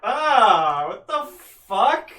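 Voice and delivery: high, loud startled yelp. Acted. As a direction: yelp in shock. Frog tongue licks NPC.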